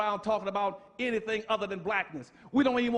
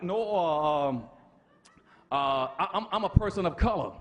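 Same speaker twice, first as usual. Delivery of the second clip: lower, sheepish mock dodge with a laugh; mocking evasive answer; 3 semitones lower than usual. Preacher mocking a flustered man who denies being black.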